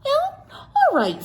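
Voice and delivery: high, slow, giving-in all right; fond keeper relenting; indulgent zookeeper. Acted. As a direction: draw it out as you give permission. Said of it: "said Mister Johnson".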